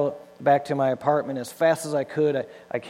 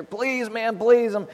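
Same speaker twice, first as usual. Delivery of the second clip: higher pleading to the contractor; desperate begging; 5 semitones higher than usual. Retold or imitated. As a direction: beg like your life depends on this job. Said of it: "and I beg the contractor".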